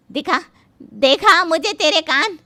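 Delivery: loud sister-in-law demanding during scuffle. Acted. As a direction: demand she show her ears. Scuffle to lift the veil.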